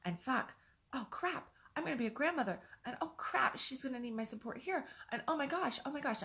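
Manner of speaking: a mother panicking at her daughter's pregnancy news, voice climbing high; panicked inner voice. Retold or imitated. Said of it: "And I was like".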